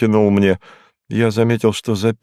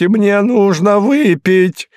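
a sudden, higher, louder yell; 11 semitones higher, 5 dB louder, slower than usual. Acted. Hinkus suddenly shouting at the detective that he needs a drink. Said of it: "заорал он вдруг".

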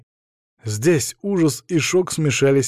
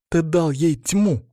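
slow, higher, hateful comeback; sharp interruption; 5 semitones higher, slower than usual. A narrator's reading. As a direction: cut in with bitter force. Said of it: "перебила Света". (гневно перебивая)

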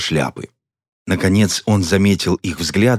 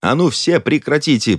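shouting them down; 9 semitones higher than usual. A narrator's reading. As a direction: shout everyone down. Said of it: "прикрикнул сосиска". (прикрикнуть на спорящих)

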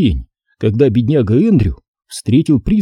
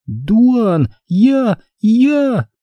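put-on high, stammering girl's voice in feigned horror; girl's mock terror; 11 semitones higher, much slower than usual. A narrator's reading. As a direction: fake panic, stumbling on words. Стеф в ужасе. (девочка в притворном ужасе)

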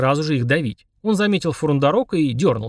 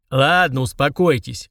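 barking; slower than usual. Acted. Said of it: "рявкнул он".

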